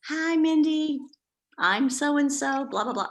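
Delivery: put-on high, slow Southern-accented caller; Southern accent, a woman leaving a friendly phone message. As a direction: do the Southern lady's sweet voicemail greeting. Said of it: "Southern accent".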